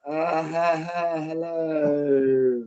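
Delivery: grudging, dragged-out half-laugh hello; resentful hello. Retold or imitated. Parents grudgingly answering the dame, resentful. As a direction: mumble it like you'd rather not. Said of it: "this really resentful".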